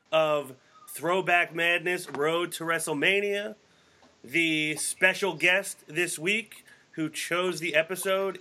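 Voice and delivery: one long breathless announcer run; all in one breath. Real, not acted. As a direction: reel off the intro without a breath. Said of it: "I'm out of breath for you".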